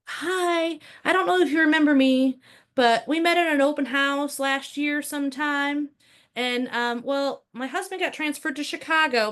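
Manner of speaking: a hint of a polite woman calling back; imitating the client. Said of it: "I get a phone call".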